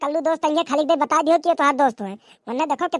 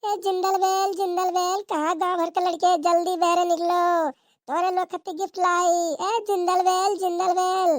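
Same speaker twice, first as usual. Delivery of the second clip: Santa calling out; 3 semitones higher than usual. Acted. Santa calls village boys out.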